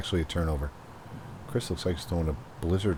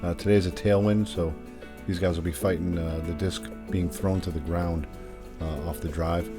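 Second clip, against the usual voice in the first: hole preview voiceover; steady course walkthrough read; golf commentator. Acted. Recorded hole preview over music.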